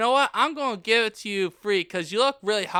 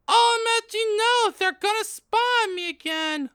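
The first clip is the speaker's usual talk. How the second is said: alarmed cry; 10 semitones higher than usual. Acted. Girl in the changing room, panicking about spies. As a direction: blurt it out in alarm. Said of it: "I cried".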